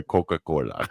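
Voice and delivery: "Coca-Cola" with an r slipped in, like "Coca-Corla"; imitated pronunciation. Friend teasing Jimena about her accent, imitated pronunciation. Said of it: "I thought you were gonna say".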